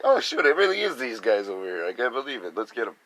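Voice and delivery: lightly voiced spotting the troublemakers; mock alarmed realization. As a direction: play someone who has just found the culprit.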